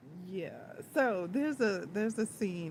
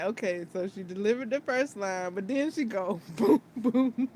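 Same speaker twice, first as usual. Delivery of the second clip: laughing through it; 5 dB louder than usual. Real, not acted. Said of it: "I'm like".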